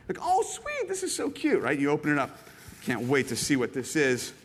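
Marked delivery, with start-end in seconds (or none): 0.2-1.6 high, gushing delight; thrilled by the wrapping; delighted gasp. Retold or imitated. Gift receiver gushing over the box, high and delighted.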